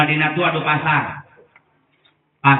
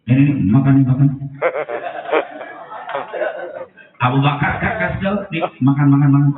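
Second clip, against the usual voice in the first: rough insistent. Acted. Abu Bakar roughly feeding.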